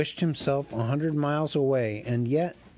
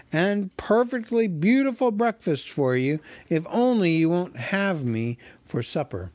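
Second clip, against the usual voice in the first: high, louder pleading; pleading hobbit; 5 semitones higher, 3 dB louder than usual. Acted. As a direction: beg the trolls not to cook you. Bilbo pleads with trolls.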